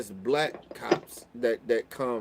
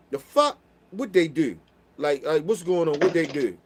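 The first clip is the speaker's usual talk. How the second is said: with an attitude; 2 semitones higher, 5 dB louder than usual. Retold or imitated. Rushing out to his nieces, with attitude. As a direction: confront them like something's wrong. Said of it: "almost like an attitude".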